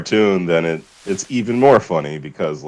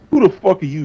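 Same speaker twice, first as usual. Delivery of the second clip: mock outburst; 12 semitones higher, faster than usual. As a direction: snap the question like a dubbed cartoon. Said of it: "And then he's like".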